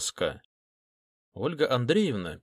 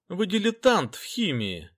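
pitched up, a sneer heard in the voice; contemptuous smirk; 7 semitones higher than usual. A narrator's reading. Teacher mocking the detective's chemistry, scornful smirk. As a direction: brush him off as an amateur, with a smirk. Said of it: "с презрительной усмешкой".

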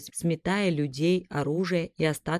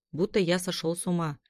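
ordinary delivery

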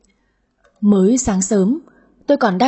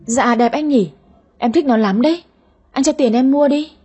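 put-on lightly raised, sweet wheedling girl; coaxing girlfriend voice; 4 semitones higher than usual. Girlfriend wheedling her date for a handbag, lightly sweet pleading. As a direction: ask for the bag like a spoiled sweetheart. Heroine coaxing boyfriend to buy bag.

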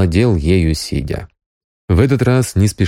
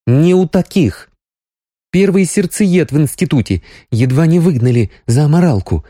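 much higher, heated Sonya voice; indignant young woman; 9 semitones higher than usual. A narrator's reading. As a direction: let the indignation rise. Sonya indignant about husband.

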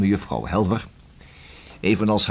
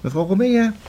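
sly whisper; 7 semitones higher than usual. Acted. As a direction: let it slip out in a hush. Inspector hints at his evidence.

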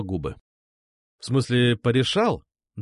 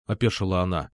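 usual speaking voice

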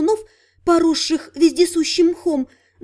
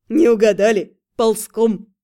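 sly nasal snickering whisper; 4 semitones lower than usual. A narrator's reading. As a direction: sly snicker through the words. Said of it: "хихикнул вор".

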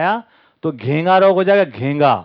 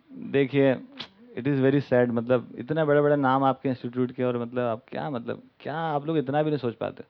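disappointed scolding; 5 semitones lower, 6 dB quieter than usual. Retold or imitated. Acted donor sadly scolds the institute.

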